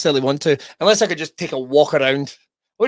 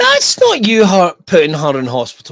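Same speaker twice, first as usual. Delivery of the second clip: mock protest; 6 dB louder than usual. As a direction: object firmly on a friend's behalf. Mock-defending friend against her confession.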